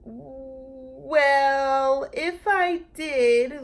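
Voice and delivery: loud, high and bossy. A narrator's reading. Lulu regaining control, bossy and loud. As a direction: take charge again. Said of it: "voice was back to being its old bossy self".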